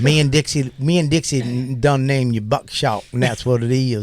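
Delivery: lightly put-on country twang; a touch of hillbilly accent, playfully; playful fake Southern accent. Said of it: "that's the accent that you like".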